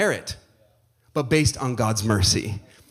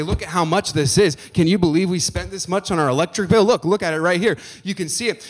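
exasperated spouse; 4 semitones higher, 6 dB louder than usual. Retold or imitated. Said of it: "show your spouse the bill and say".

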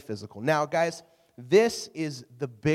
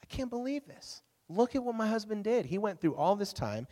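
mildly distraught retelling, pitch settling as it goes on; 3 semitones higher than usual. Retold or imitated. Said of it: "she was distraught".

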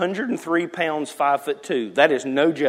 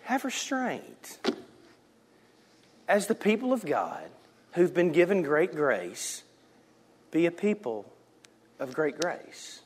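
God's gentle voice; 9 dB quieter than usual. Acted. Preacher voicing the Lord urging restraint. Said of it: "And the Lord's saying".

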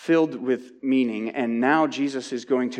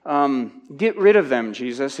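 complaining disciples; 4 semitones higher than usual. Retold or imitated. Preacher voicing tired disciples begging Jesus, impatient. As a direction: whine at the teacher to get rid of them. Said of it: "And they say to Jesus".

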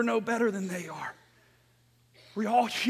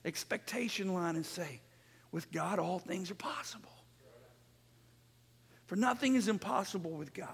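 soft, near-whispered scripture promise; hushed preaching; 5 dB quieter than usual. Real, not acted. Preacher reassures congregation from scripture, hushed preaching. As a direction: quote the verse gently, almost under the breath.

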